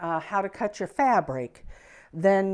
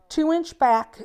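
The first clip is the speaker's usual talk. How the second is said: higher and louder, leaning on two; emphatic slip; 8 semitones higher, 7 dB louder than usual. Real, not acted. Teacher stating the strip size to viewers, higher and louder. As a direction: push the number out eagerly, then stop. Slip before correcting measurement.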